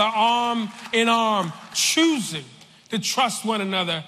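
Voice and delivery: measured sermon cadence over music; preaching. Acted. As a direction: preach it steadily, building unity.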